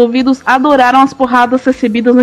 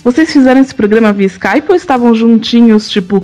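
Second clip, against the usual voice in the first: sultry voice; 2 semitones lower than usual. Shown as a demonstration. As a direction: read it like a love letter. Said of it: "vou ler o seu e-mail com voz sexy".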